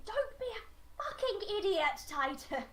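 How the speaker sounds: high, drawn-out mock yell; Margaret shouting. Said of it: "Margaret just shouting".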